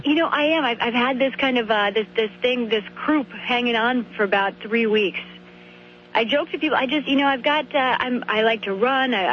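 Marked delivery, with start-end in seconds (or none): 0.3-7.2 a little hoarse, under the weather; hoarse voice from a sore throat. Real, not acted. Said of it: "You sound like you may be a little hoarse".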